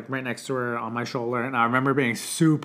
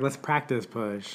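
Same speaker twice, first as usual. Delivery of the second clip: nonchalant nurse; 3 semitones lower, 6 dB quieter, much slower than usual. Retold or imitated. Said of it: "super nonchalant".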